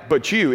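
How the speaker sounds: firm stress landing on "you"; "you" said pointedly, as the key word; emphatic. Shown as a demonstration. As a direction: press "you" home as a personal challenge. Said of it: "and it's emphatic".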